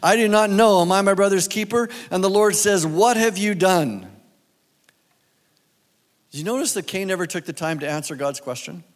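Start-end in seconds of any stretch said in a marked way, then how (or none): 0.0-4.1 firm, louder Bible reading from the pulpit; preacher reading Genesis to the congregation, firm and deliberate; scripture reading. Acted. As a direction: read the verses out like a preacher. Reads scripture passage aloud.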